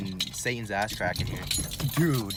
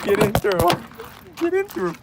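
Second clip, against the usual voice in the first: excited urging; 11 dB louder than usual. Real, not acted. Struggling into car.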